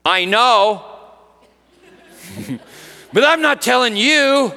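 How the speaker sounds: lightly voiced cheeky little girl; a hint of a teasing six-year-old; child's voice. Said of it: "this is what she said".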